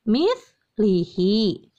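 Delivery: "mislihi" drawn out slowly; slow word demo. Shown as a demonstration. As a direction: spell the sound out for the class. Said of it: "ditulisnya min". ("mislihi" dibaca pelan)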